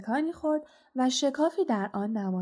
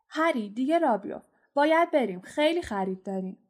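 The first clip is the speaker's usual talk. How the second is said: calling out; 4 semitones higher than usual. Acted. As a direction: call Harry over the noise. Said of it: "با صدای بلندی از میان جمعیت فریاد زد". (فریاد صدا زدن از میان جمعیت)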